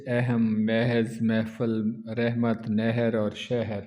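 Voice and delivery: اہم as ehəm, محفل as mefəl, رحمت as rehmət; middle vowel. Shown as a demonstration. Teacher showing students the correct middle sound. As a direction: read نہر and شہر with the middle e, nehar and shehar. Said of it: "ہم اس کو درمیانی آواز سے پڑھتے ہیں".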